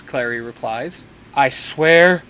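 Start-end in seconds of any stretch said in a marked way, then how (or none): 1.3-2.2 slow, mildly raised grumble; exasperated shout. A narrator's reading. Dean curses the books about him, half-hearted shout. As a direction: draw it out in fed-up annoyance, only half shouted. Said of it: "Dean shouts".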